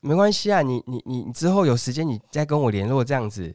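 high, sugary phone voice calling his name; sweet saleswoman caller. Retold or imitated. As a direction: coax him like a pushy recruiter. Woman caller presses. (高声甜腻的女推销员)

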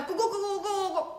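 quick high mouth-made knocking, with a laugh; rapid knocking noise. Acted. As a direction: rattle off a fast knock-knock sound. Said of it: "一阵急促的敲门声".

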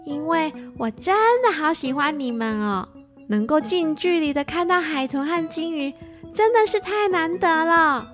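bashful giggle, then sweet thanks; shy laughing. Acted. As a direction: laugh shyly while thanking. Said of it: "害羞地笑着说".

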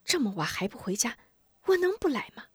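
hushed motherly reproach rising high; mild scolding. Acted. Mother scolds son out late, hushed mild reproach. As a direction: chide him gently under your breath. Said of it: "吴夫人嗔道".

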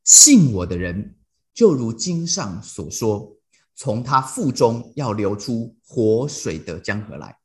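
slow, solemn reading of the verse; scripture reading. Acted. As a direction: read the verse slowly and weightily. Reads scripture verse slowly.

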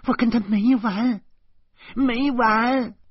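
high, loud raging vow; furious. A narrator's reading. Enraged man lunging at the door, high and loud. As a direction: lunge out, swearing revenge.

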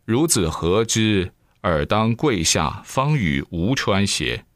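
slow, lightly voiced old man giving orders; a hint of a testy old immortal, slow; stern old sage. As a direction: drawl out a haughty elder's command.

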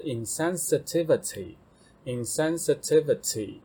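insensitivity said twice, syllable by syllable; teacher introducing insensitivity, careful model reading; model word. Shown as a demonstration. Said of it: "下一个是insensitivity".

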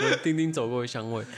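trying to keep a straight face; storyteller barely holding in laughter; stifled laugh. Real, not acted. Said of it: "讲不下去了".

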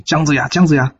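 a fellow disciple calling after him, building to indignant. Acted. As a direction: grow pressing with each call. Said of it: "后面声音越叫越急".

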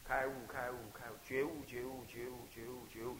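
steady, fading mantra; mantra recitation demo. Shown as a demonstration. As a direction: chant it evenly, letting it fade. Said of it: "这样念".

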